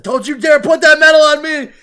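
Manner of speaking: furious high-pitched yelling; Bakugo. Retold or imitated. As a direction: scream in outrage, imitating a raging hothead. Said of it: "he's just yelling at him".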